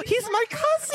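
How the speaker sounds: high delighted gasp then blurt; gasp, then announce it with glee; gasping surprise. Acted. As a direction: elf startled by the question, squealing. Elf Festo surprised.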